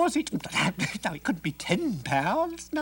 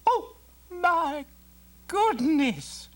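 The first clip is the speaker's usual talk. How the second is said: much higher gasp of dismay; shocked mother; much slower than usual. Acted. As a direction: clutch your face in horror.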